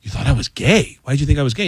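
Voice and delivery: mildly incredulous rising questions; taken aback. Retold or imitated. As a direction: imitate surprise, voice lifting on each question. Man reacts to surprising assumption.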